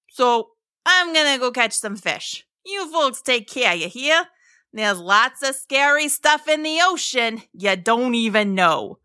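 casual, lilting sea-monster voice; chummy creature giving a parting warning; Mo the friendly mosasaur. A narrator's reading. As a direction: play a laid-back talking monster saying goodbye.

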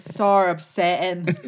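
mimicked Geordie catchphrase; imitated Newcastle accent. Showing how Jade said it, imitated Geordie accent. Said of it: "how did she say it".

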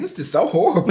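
high, squeaky mock dismay; mock dismayed whine. At grandma's casket, high mock whine. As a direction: play up the little kid's horror. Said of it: "I was like".

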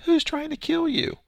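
high, loud mock yell of the crowd; crowd yelling back. Crowd in the temple yelling back at Jesus, loud mock yell. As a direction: hurl the question back like an angry crowd. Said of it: "the crowd had yelled back".

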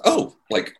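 high, giggly mock surprise; a lightly voiced, giggling Kelly; imitating Kelly. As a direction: play Kelly bumping into a star, giddy. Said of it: "in the true Kelly way".

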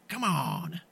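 hint of a Batman dare, rising at the end; a lighter Batman-style challenge; Michael Keaton taunt. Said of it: "Michael Keaton thing where I'm like".

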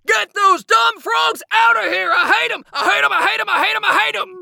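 a dragon yelling in fear at frogs; scared of frogs. Acted. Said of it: "It looks like King Dragon is afraid of frogs".

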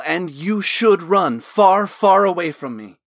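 loud, slow pleading warning; urgent warning. Acted. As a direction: urge him to flee. Desperate warning to friend.

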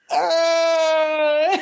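high, choked little groan; a squeezed helpless grunt; strangled uh. Retold or imitated. Stunned by her father's remark, a high, choked uh. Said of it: "I'm like".

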